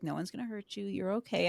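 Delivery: soft, retold reassurance; soothing. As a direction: hush it gently, as if cradling someone. Facilitator cradling her, retold.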